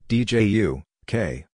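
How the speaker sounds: ordinary delivery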